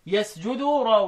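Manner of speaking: very slow, drawn-out chanting of the line; slow verse recital. Shown as a demonstration. Teacher chanting the poem line to his students. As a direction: draw each word out slowly. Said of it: "قال لك".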